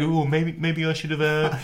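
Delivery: lightly voiced mock Sherwood musing to himself; a hint of a sulky pundit alone at home; imitating Tim Sherwood. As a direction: mutter it like a regretful pundit. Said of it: "picturing little Tim Sherwood's face".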